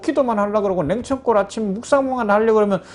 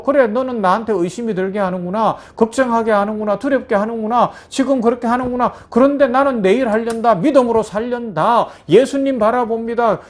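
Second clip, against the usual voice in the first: defiant faith; 4 semitones higher, 3 dB louder than usual. Acted. Believer defies the devil.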